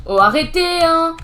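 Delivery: a gamer under fire, yelling at snipers in annoyance; annoyed outcry. Real, not acted. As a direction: call out the snipers in real annoyance. Sniped at in game.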